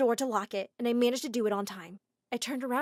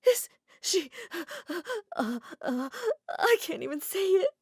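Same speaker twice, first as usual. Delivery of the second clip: shocked sobbing; 9 semitones higher than usual. Acted.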